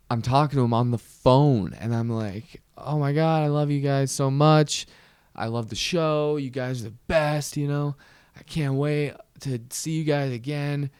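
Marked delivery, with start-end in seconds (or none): 2.8-10.9 high, gushing starstruck fan voice. Retold or imitated. Kid gushing to his favorite drummer, high and starstruck. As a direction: gush like a starstruck teen fan.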